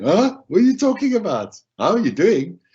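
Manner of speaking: puzzled disbelief. Retold or imitated. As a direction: play the baffled listener who can't believe it. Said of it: "Now you're probably going".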